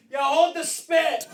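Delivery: high, slow yelled joke with a laugh. Retold or imitated. Yelling at a pizza order from the background, a high laughing call. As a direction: call it out across the room, laughing.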